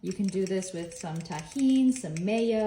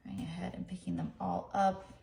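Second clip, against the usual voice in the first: tag withheld; 3 semitones lower, 7 dB quieter than usual. Real, not acted. Murmuring while handling the corn.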